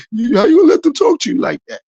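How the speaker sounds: high, loud egging-on; instigating friend. Retold or imitated. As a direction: needle him to go start something. Voicing an instigator egging him on.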